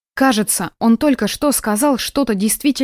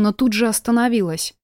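ordinary delivery, nothing marked

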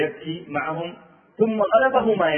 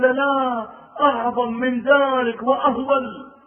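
high and loud, slow; slow, loud dread; grave announcement; 9 semitones higher, 5 dB louder, much slower than usual. Retold or imitated. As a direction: drag out the weight of bad news.

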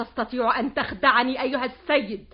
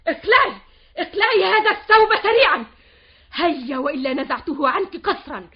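angry command; 6 dB louder than usual. Acted. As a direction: order her out furiously. Orders maid out of dress. (تأمر الخادمة بغضب)

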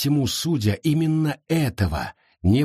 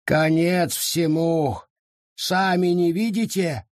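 despairing; 7 semitones higher than usual. Acted. Forest despairs.

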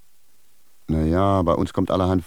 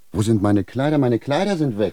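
higher, louder sudden alarm; panicking at the missing clothes; 5 semitones higher, 3 dB louder than usual. Acted. The risen cobbler to the sage, alarmed that his clothes are gone.

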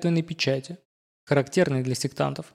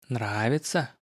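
low, soft hoarse gurgle; hoarse gurgling voice; 4 semitones lower, 5 dB quieter, slower than usual. A narrator's reading. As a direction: gurgle it out slyly from the back. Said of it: "вкрадчиво спросил его хриплый, булькающий голос".

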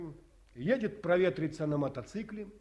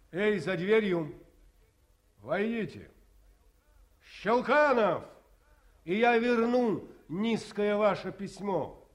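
stern call; 5 semitones higher, 3 dB louder than usual. Acted. Colonel calls through the door.

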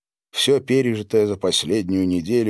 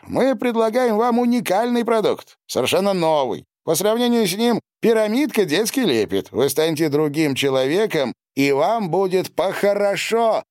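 higher, eager salesman's pitch; pushy dealer pitch; 11 semitones higher than usual. Acted. Dealer pushing a new drug on the doctor, eager sales pitch. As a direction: sell the product hard, pitched up high.

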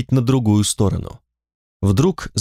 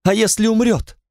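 much higher, panicked cry; a frightened woman cries out over the injured man, much higher; 11 semitones higher than usual. Acted. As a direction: cry out in fear he'll die. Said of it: "Она вскрикнула".

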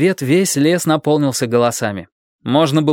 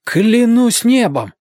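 slow, raised exclamation of shock; astonished oath; 11 semitones higher, 4 dB louder, much slower than usual. A narrator's reading. Dick realising the truth, slow astonished high exclamation. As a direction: let the realisation hit you. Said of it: "воскликнул он".

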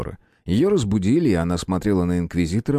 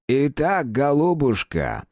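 impatient exclamation; 7 semitones higher, slower than usual. Acted. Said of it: "нетерпеливо воскликнул старик".

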